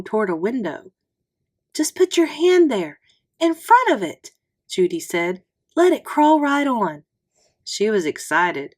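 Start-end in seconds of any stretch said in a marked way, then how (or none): 1.7-4.3 higher, eager squeaky voice; squeaky excited. A narrator's reading. Judy urging the boy to touch the spider, squeaky. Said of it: "Her voice was squeaky". 5.7-7.0 squeaky excited. A narrator's reading. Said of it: "Her voice was squeaky".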